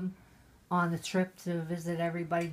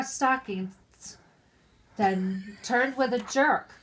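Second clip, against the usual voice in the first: tipsy poem reading; 3 semitones higher, 7 dB louder, slower than usual. Acted. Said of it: "Sounded like Foster Brooks".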